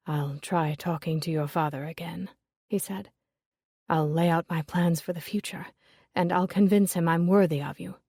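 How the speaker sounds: a hint of a dejected suitor; Julius, resigned. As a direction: say it as a man out of options. Julius voiced lower.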